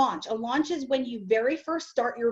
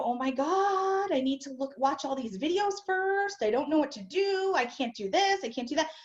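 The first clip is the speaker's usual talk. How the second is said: panicky newbie; 2 semitones higher than usual. Retold or imitated. New member panicking about videos, in a fretful voice. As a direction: play the overwhelmed new member spiraling.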